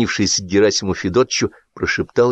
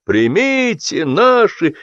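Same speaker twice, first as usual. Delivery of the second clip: buzzing table; 7 semitones higher, much slower than usual. A narrator's reading. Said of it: "загудели за столом".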